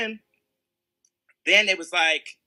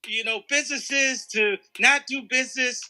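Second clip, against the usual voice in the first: imitating Ari Emanuel; 2 semitones higher, 4 dB louder than usual. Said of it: "here I am. I'm Ari Emanuel".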